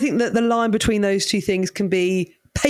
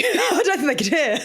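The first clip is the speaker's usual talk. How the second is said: laughing through the words, pitched up; 7 semitones higher than usual. Real, not acted. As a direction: giggle your way through the line. Joke about comedians' gigs.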